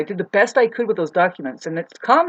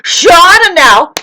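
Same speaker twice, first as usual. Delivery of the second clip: slow, much higher and louder shout; retold shout; 11 semitones higher, 16 dB louder, much slower than usual. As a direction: drag out the yell.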